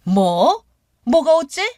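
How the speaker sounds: sharp, high and loud outburst; mother-in-law cut to the quick, furious; furious retort. Retold or imitated. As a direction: snap back in shock and fury. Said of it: "머리끝까지 화가 나서".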